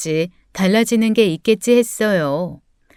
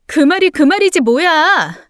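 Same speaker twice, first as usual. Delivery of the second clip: high-pitched irritated outburst; raised voice; 6 semitones higher than usual. Acted. Wife snapping at husband over his hints, raised voice. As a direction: raise your voice in exasperation. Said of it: "왜 소리를 질러?".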